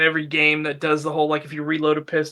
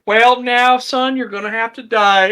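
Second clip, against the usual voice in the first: mock menacing redneck; 5 semitones higher, 5 dB louder than usual. Redneck threatens visitor.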